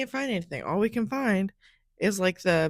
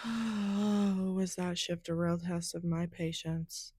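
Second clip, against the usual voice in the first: soft, exhausted exhale into words; weary sigh; 7 dB quieter, slower than usual. Real, not acted. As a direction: sigh it out, worn down by the shift. Sighing over an exhausting shift.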